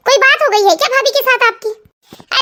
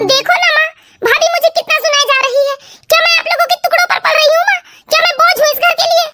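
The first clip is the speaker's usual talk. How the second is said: whiny complaint; 4 semitones higher than usual. Acted. Sister-in-law plays the victim.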